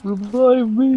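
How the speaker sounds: urgent call for help, high and loud; shouting. Real, not acted. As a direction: yell out to a teammate. Calling teammate for revive mid-fight.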